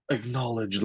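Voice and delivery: soft, reluctant acknowledgement; quietly resigned reply; regretful. Retold or imitated. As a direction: imitate an officer reluctantly accepting an order. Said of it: "kind of regrettably".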